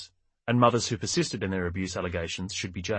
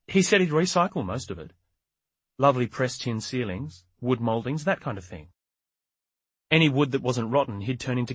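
put-on older woman; 4 semitones higher than usual. Older woman sticking to her story.

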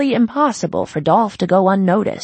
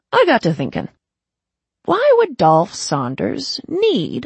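smug gang boss, sly reasoning; 6 semitones higher, 4 dB louder than usual. Acted. Kelly reasoning aloud.

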